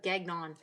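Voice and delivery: Gagnon with hard English G-N, no French accent; anglicised Gagnon. Shown as a demonstration. Showing Gagnon without an accent, anglicised pronunciation. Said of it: "Can't even say Gagnon without an accent".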